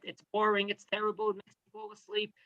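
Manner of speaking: bored voice fading to nothing; bored, fading away. Pretend. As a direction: drag it out like you're nodding off. Acting bored by the shiur.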